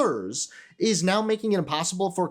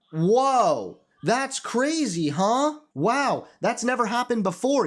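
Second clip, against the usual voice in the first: mock amazement, pitched up; sarcastic surprise; 5 semitones higher, slower than usual. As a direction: fake shock, high and drawn out. Mock amazement at obvious thing.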